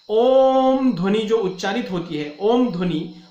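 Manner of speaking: ओम held long and level; prolonged om. Shown as a demonstration. Teacher showing the extra-long ओम, held out. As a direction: stretch ओम out as a long held vowel. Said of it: "ओम ध्वनि का जो उच्चारण किया जाता है वह उच्चारण प्रदीर्घ".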